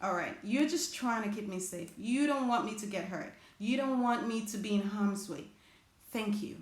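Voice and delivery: calmly reassuring your own fear; gentle self-talk. Pretend. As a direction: thank your fear kindly, like calming a friend.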